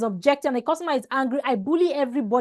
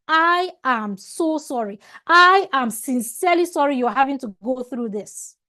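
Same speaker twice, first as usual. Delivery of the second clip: mean every word of the sorry; personal apology. Shown as a demonstration. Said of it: "you must personalize your apology".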